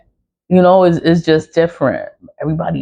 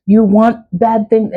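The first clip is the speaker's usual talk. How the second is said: mocking critics; 5 semitones higher than usual. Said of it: "I know people say".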